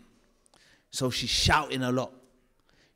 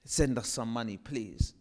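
soft, fading plea to God; a child praying under his breath; whispered desperate prayer, growing fainter; hushed pleading prayer; 6 semitones lower, 7 dB quieter than usual. Retold or imitated. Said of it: "I'm praying, I'm saying".

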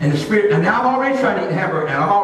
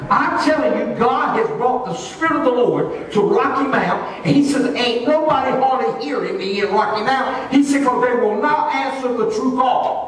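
raised, emphatic sermon voice; fervent preaching; 5 semitones higher than usual. Real, not acted. Preacher urging Rocky Mount to hear God, fervent preaching. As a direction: press the message on the congregation.

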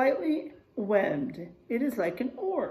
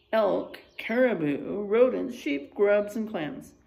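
put-on reading to children; 3 dB louder than usual. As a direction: clear storybook reading for a class. Reads picture book aloud to class.

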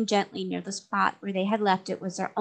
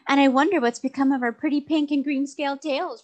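gleeful; 6 semitones higher, 3 dB louder than usual. Acted. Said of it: "laughing with glee".

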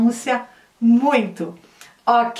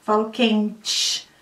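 Santista accent; 3 semitones lower, much slower than usual. Shown as a demonstration. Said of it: "enfiar uns finais que não existe".

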